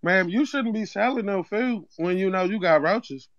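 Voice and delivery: put-on Zeke accent; Zeke-style street accent. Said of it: "why is he talking like Zeke off power".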